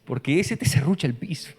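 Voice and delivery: imitando al señor que habla mal, en voz más baja; murmúralo como quien desprecia a alguien a sus espaldas; crítica en voz baja. Retold or imitated. (el señor critica al camionero a sus espaldas, en voz baja)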